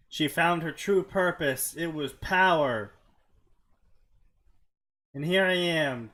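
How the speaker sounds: game master narrating the villain's rise; dramatic story narration. Acted. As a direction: narrate it with dramatic weight, slowing at the end.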